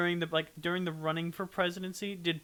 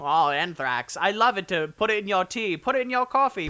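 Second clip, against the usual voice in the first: louder, eager hammed-up buyer; mock eager customer; 8 dB louder than usual. Playing along with salesman, loud mock eager customer. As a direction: gush like a gullible customer.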